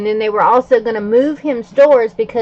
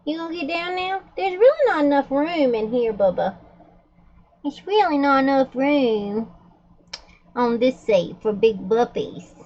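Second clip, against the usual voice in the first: pet talk; 3 semitones higher than usual. Real, not acted. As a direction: gently tease the dog off the seat. Talking to the dog on the seat.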